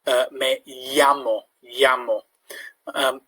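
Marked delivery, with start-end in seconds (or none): 0.3-2.2 llamo said as yamo; Spanish double L as Y. Shown as a demonstration. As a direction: llamo with a Y sound. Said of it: "a bit like a Y sound".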